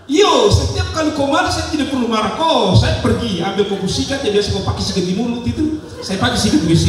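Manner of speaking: high Papuan voice breaking into laughter; laughing Papuan wife. Retold or imitated. Wife revealing the toothbrush trick to her husband, laughing Papuan voice. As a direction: deliver the punchline, laughing through it. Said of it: "Suami bilang".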